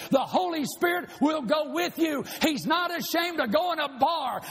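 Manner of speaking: fervent preacher's shout; preaching at full force. Real, not acted. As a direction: push it at the congregation.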